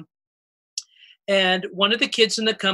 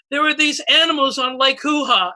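put-on kid voice; 5 semitones higher than usual. Kid names the cartoon.

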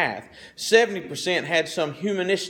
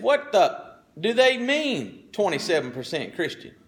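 retold outburst; 3 semitones higher than usual. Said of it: "he cursed out loud".

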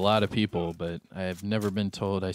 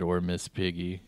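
deadpan repeat; 2 semitones lower, 3 dB quieter than usual. Retold or imitated. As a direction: quote it back flatly, unimpressed. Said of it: "He straight up said".

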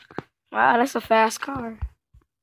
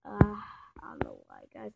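sleepy whisper; 7 dB quieter than usual. Pretend. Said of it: "I'm so sleepy".

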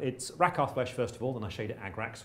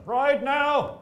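high, loud rallying shout; battle cry; 10 dB louder than usual. Acted. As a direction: yell it to charge the riders. Acting out a king's battle speech.

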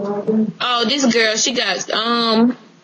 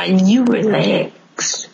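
defiant. Real, not acted. Pushing back at Relax.

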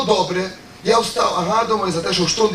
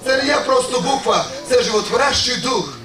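solemn sermon address, lower and steady; preaching; 3 semitones lower than usual. Acted. Preacher addressing the congregation, solemn sermon tone. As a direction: proclaim it to the brothers and sisters.

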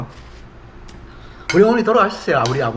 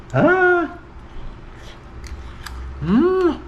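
savoring hum; much slower than usual. Real, not acted. Tasting food, savoring moans.

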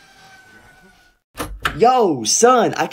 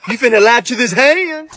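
threatening; 5 semitones higher than usual. Acted. Threatening son.

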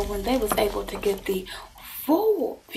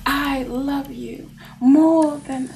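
slow, earnest declaration of love; drawn-out vow to a lover; acted love declaration; slower than usual. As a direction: voice a devoted lover, taking time over it. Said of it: "this person is claiming".

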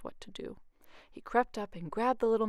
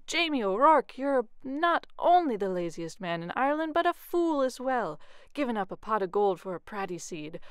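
furious wife; 3 semitones higher, 5 dB louder than usual. Acted. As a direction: tear into her foolish husband. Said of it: "she was furious".

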